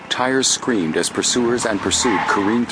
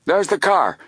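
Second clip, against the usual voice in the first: high-pitched shout of discovery; excited cry; 11 semitones higher than usual. A narrator's reading. Guard arriving on the pier, crying out. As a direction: call out a sudden sighting. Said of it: "cried one of the men".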